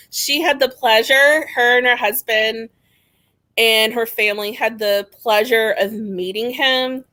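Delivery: openly sarcastic, leaning on pleasure. Real, not acted. Guest on friend meeting her ex, sarcastic. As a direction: present the misfortune as a supposed treat. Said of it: "I'm being very sarcastic here".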